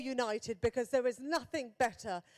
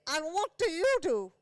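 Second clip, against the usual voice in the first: high mock-royal English accent; Queen's posh accent; 6 semitones higher, 4 dB louder than usual. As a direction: imitate the Queen's posh small talk, pitched up. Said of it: "when she said to me".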